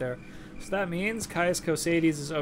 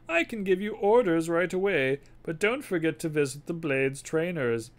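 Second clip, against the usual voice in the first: put-on louder, raised old spy boss; spymaster voice; 5 semitones higher, 5 dB louder than usual. Spymaster asking the courier for the package, gruff. Reads NPC dialogue in character.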